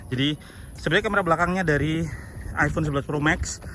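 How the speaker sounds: out of breath after walking; panting between words, still winded. Real, not acted. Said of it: "Dan gua ngos-ngosan".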